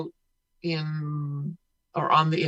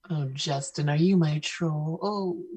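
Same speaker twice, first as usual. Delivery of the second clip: dirty troll voice; 6 dB quieter than usual. Pretend. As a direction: murmur it like a lurking troll. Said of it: "your dirty troll voice".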